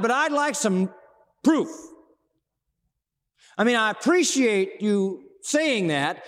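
lightly voiced bold request to God; a hint of a brash Moses asking for proof; Moses pleading.

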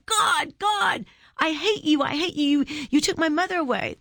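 high, impassioned outburst at God; angry twelve-year-old. Retold or imitated. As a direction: re-enact a child railing at God. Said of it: "take our angry fists at twelve saying".

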